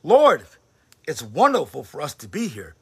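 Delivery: high, loud eager cry; excited exclamation. Acted. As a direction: burst out with joy. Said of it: "Peter exclaimed".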